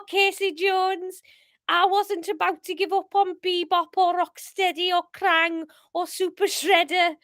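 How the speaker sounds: impassioned amateur Scouse monologue, near giggles; hammed-up Scouse. Paul refusing to give up his turtles, hammed-up Scouse. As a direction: swear it solemnly in bad Scouse. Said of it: "Um, Scouse".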